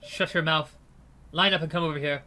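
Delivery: lightly voiced cold gangster giving orders; a hint of an indifferent thug; detached commands, barely bothered. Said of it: "cold, detached voice".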